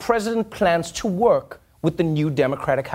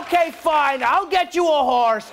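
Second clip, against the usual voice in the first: Trump impression; 7 semitones higher than usual. Trump voiced answering wife.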